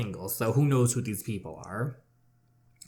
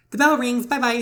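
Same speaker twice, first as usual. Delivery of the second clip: sudden exclamation; 11 semitones higher, 8 dB louder than usual. Real, not acted. Bell interrupts.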